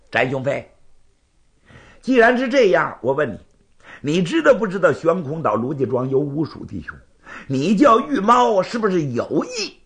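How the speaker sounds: proud, confrontational rival; lightly voiced indignant challenger; challenging swordsman. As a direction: demand an answer from your rival. Bai challenges Zhan in story.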